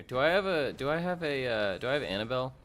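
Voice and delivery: eager rising voice; excitedly checking inventory; excited, high and loud. Real, not acted. Excited searching, +6 st.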